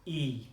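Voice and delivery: "E" said as the ee in see; slow, held "E" like English see; vowel demo. Shown as a demonstration. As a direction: model "E" as a pure ee sound. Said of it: "that sound is".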